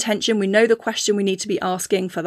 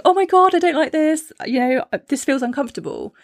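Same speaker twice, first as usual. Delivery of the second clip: mock whiny complaint; 6 semitones higher than usual. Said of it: "instead of running away going".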